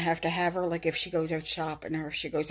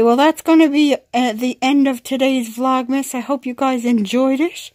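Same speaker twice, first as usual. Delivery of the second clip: high, loud pet voice; voicing the dog; 6 semitones higher, 11 dB louder than usual.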